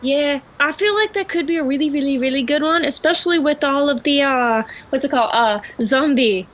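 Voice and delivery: put-on British accent; English accent. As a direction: speak in an assumed English accent. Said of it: "heard me speak with an English accent".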